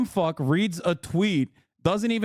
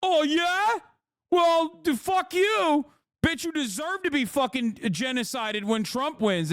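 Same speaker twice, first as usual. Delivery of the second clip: much higher, squeaky mock of an angry liberal; 9 semitones higher, slower than usual. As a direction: parody them with a shrill-pitched sneer. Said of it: "being like".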